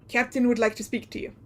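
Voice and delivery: lightly voiced Russian sailor; a hint of a Russian sailor. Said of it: "I lost my Russian sailor voice".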